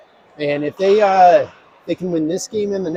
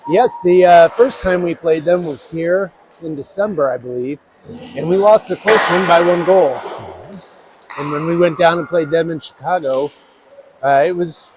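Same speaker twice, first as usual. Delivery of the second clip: breathless after running up stairs; catching breath between phrases. Real, not acted. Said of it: "so I'm a little out of breath".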